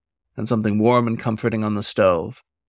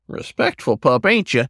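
put-on amused old wolf; 2 semitones higher than usual. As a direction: tease the pup kindly.

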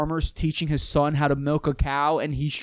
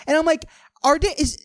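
tag; 11 semitones higher than usual. Real, not acted. Still cracking up, justifying the joke.

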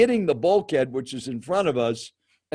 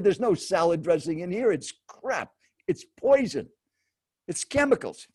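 imitated indignant rant; 3 semitones higher than usual. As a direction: act out the seatmate condemning each item. Acted stranger ranting about food.

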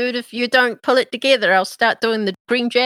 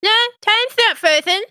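higher, eager little servant; imp voice; 11 semitones higher than usual. Acted. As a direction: play a bound imp, brightly.

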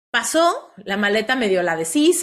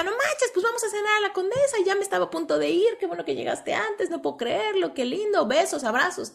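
much higher, gushing with delight; thrilled; 10 semitones higher than usual. Retold or imitated. Woman greeting her surprise visitor on Valentine's, thrilled and high. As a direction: bubbly rush of happy words. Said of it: "Emocionadísima".

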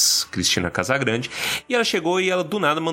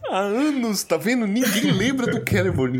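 high-pitched comic indignation; exasperated rant; 9 semitones higher than usual. Real, not acted. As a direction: complain like nobody has listened for years. Comic rant about forgotten Celeborn.

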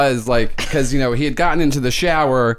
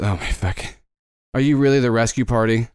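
weary prisoner; 3 semitones lower than usual. Acted. Prisoner NPC groans.

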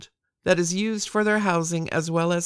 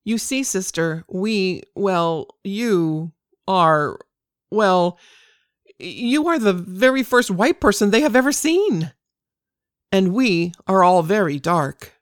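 put-on Indian accent; 3 dB louder than usual. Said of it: "in a thick Indian accent".

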